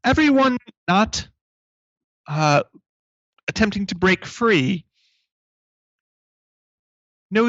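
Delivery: slow, high PA announcement; robot announcer voice. Acted. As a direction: announce it over the loudspeaker. GM voices robot over paging mic.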